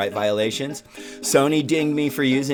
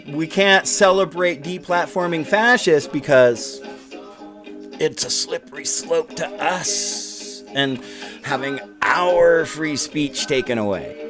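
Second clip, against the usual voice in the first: mock complaint. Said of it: "were talking about".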